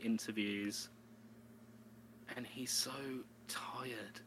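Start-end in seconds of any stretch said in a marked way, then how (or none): 2.4-4.2 hushed gossip; whisper. Real, not acted. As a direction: trail off into a whisper.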